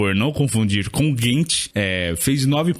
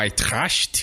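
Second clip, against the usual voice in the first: crude, over-the-top fake German accent; 3 semitones lower, 4 dB quieter than usual. Speaker discussing football results, saying the club's name; crude german accent. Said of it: "eu tentei fazer um, um sotaque alemão bem tosco aqui".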